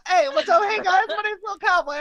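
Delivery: very high, loud cartoon squeak; squeaky tiny witch voice. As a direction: play a tiny witch rapper. Voicing chatter Lil Cobweb.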